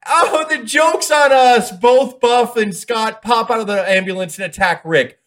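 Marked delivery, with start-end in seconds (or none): 0.1-1.7 higher, louder and slow, a hammed-up dumb realization; mock dopey realization. Recapping the angle, Rick voiced as the oblivious dupe, slow hammed-up realization. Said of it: "Rick turns around".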